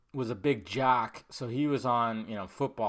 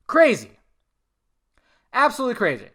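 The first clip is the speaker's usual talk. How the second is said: disbelief; 9 semitones higher, 8 dB louder, faster than usual. Real, not acted. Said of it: "reacting in disbelief".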